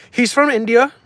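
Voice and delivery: mock high squeaky echo. Streamer mocking chat's question, high and loud. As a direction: squeak it back at chat like a mocking parrot.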